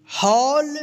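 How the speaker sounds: ordinary talk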